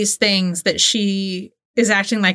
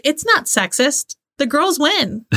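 put-on bratty teen voice; 7 semitones higher, slower than usual. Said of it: "Danielle's like".

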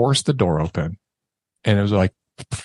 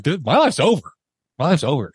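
higher-pitched mock panic; retold freak-out; 6 semitones higher than usual. Man to friend as cops arrive, retold panic. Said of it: "freaking out".

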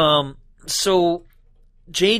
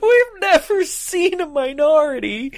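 high laughing sarcasm; high put-on sarcastic voice; high mocking voice; 12 semitones higher than usual. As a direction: sneer it in a squeaky voice. Mock character line.

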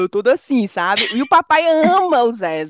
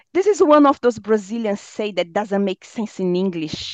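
slow explaining; slower than usual. Retold or imitated. Kalil explains, quoted.

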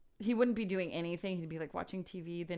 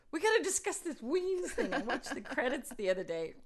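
quoting him through laughter, higher; laughing imitation of friend; 5 semitones higher than usual. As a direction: giggle while quoting the friend. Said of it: "He was like".

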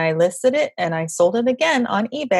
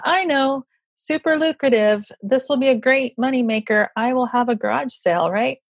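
higher-pitched, playfully eager quoted thought; mock bright idea; 5 semitones higher than usual. Seller recalls her garage sale brainwave, mock excited. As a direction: play up a supposedly brilliant money plan.

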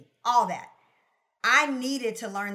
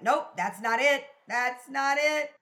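exasperated; 5 semitones higher, 6 dB louder, slower than usual. Retold or imitated. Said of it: "it's like".

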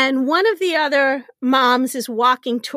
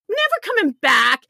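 mock yell; 5 semitones higher than usual. Insisting she must do zipline.

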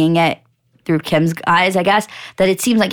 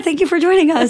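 mock host voice; 9 semitones higher than usual.

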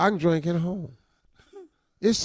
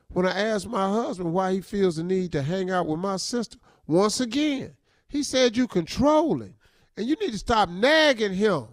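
put-on drunk dialing; 4 semitones higher than usual. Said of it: "Why you sound drunk".

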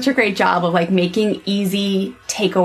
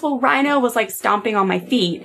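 put-on teeny baby voice; 3 semitones higher than usual. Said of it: "little teeny baby voice".

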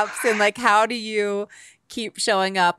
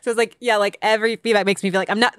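ordinary delivery

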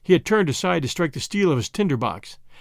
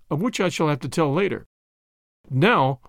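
usual speaking voice

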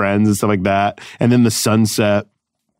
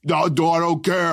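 softer, higher brush-off; mock dismissive; 6 semitones higher, 4 dB quieter than usual. Guard refusing performer's protest, mock dismissive. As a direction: imitate a guard waving it away.

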